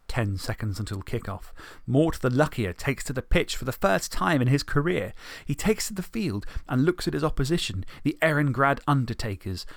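plain storyteller read; story narration. A narrator's reading. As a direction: narrate evenly.

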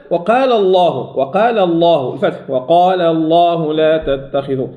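«وقال الله» with a heavy L after the A; lam enfático após fatha. Shown as a demonstration. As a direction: recite الله with a full dark L and long vowel.

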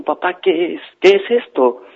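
put-on high, anxious little-boy voice; frightened child. A narrator's reading. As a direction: ask it high and hushed, clinging to dad. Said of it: "El niño asustado abrazó al papá".

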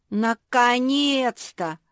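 high, loud, drawn-out cry of relief; exclaiming. A narrator's reading. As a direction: exclaim it, stretching every syllable. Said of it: "воскликнула младшая сестра". (протяжное громкое восклицание)

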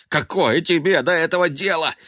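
high, loud defiant yell; angry retort. A narrator's reading. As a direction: throw it back at him. Yelling at his brother.

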